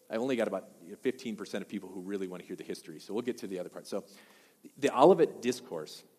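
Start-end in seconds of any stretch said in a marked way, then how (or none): 0.1-3.9 quick, hurried aside; talking fast. Real, not acted. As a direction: rush through it without raising your voice. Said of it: "I know I'm talking kinda fast".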